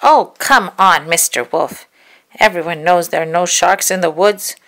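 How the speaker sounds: put-on girl scoffs at the wolf's shark story; scoffing girl. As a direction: laugh off his silly claim.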